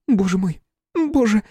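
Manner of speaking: high, loud anguish; despairing cry. A narrator's reading. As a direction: cry out to God. Flora collapses in despair.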